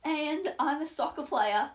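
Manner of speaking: put-on amused amateur Australian accent. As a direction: try an Australian accent, half laughing. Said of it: "now you do the Australian one".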